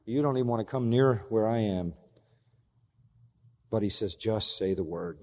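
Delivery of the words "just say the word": soft, slow, lower Just say the word; hushed. Shown as a demonstration. Preacher quietly repeating the centurion's request, soft and slow. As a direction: say Just say the word quietly and slowly, dropping low. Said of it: "This is his great faith".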